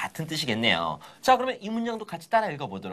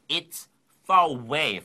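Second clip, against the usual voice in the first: slow phrase demo; much slower than usual. Shown as a demonstration. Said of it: "Far away 하면 멀다고".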